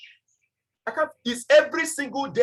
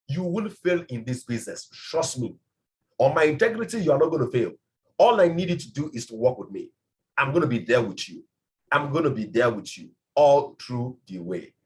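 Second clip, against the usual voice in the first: lower, steady and assuring; reassuring promise; 6 semitones lower than usual. Shown as a demonstration. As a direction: promise it eye to eye, calmly. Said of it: "Can you talk like that?".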